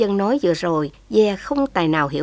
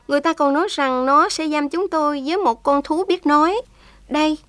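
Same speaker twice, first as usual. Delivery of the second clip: voiced higher, earnest and pleading; a young prisoner speaks up with feeling; young woman's voice; 7 semitones higher than usual. Thảo Dân to the journalist, higher young woman's voice.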